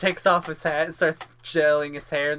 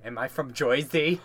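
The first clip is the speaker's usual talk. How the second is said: lightly put-on Jersey accent, questioning; 3 dB quieter than usual. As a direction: ask it with a mock Jersey "Joisey". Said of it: "like, a Jersey accent".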